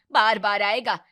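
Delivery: loud furious snap; angry outburst. Acted. Mother-in-law berates her daughter-in-law, loud angry shout. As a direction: bark it at the bride.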